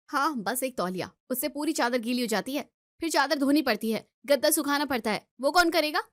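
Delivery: building annoyance, rising to a challenge; exasperated quarrelling. Acted. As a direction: list each chore as a mounting grievance. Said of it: "सुबह सुबह क्यों चिल्ला रहे हो". (झुंझलाकर शिकायत करना)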